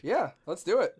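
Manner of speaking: soft unvoiced whisper; whispered agreement. Real, not acted. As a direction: whisper it conspiratorially.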